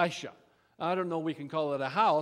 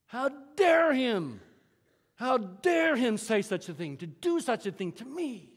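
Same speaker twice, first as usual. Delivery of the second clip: mock outrage; 3 semitones higher than usual. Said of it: "he is in a rage".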